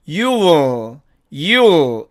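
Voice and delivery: "you will" squeezed to "yu-o", then "yul"; contracted you'll. Shown as a demonstration. Teacher shortening you will for learners, contracted. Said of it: "이렇게 발음이 되고".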